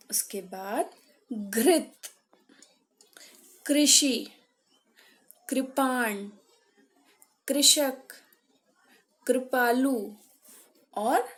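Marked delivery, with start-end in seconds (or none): 1.3-10.1 "घृत" to "कृपालु" one by one, each with a clear "ri"; word reading drill. Shown as a demonstration. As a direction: model "कृषि", "कृपाण" distinctly as "krishi", "kripaan". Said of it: "इसका उच्चारण करेंगे".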